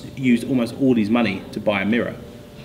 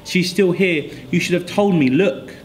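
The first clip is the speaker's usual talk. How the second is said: excited cry; 7 semitones higher than usual. Acted. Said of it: "she cried".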